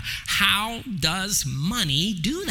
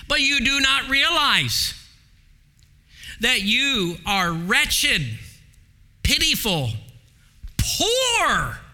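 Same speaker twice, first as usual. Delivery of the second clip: voicing Jesus; 3 semitones higher, slower than usual. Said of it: "This is Jesus speaking to the church".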